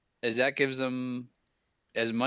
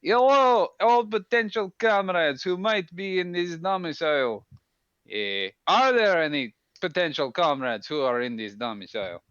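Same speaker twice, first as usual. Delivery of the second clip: a lightly voiced soldier, formal and friendly; Minx in character. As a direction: speak as Minx, stiff and formal.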